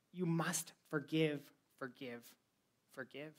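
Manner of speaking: fading repetition. Acted. Repeating Jesus' command, fading.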